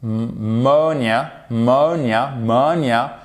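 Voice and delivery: "monia" slowly, with a long MO; building from stressed syllable. Shown as a demonstration. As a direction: repeat "monia" alone, leaning on MO. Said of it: "mettre l'accent tonique ici".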